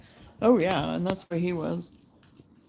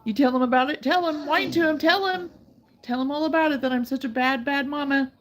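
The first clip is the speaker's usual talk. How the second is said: mock teasing; 4 semitones higher, 5 dB louder than usual. Real, not acted. Teasing whining dog to husband.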